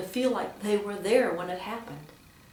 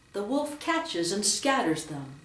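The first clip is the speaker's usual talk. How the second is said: slow line, "catches" and "scatters" emphasized; deliberate reading that colors "catches" and "scatters"; stress on verbs. Shown as a demonstration. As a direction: give "catches" and "scatters" extra weight. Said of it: "with emphasis on the verb".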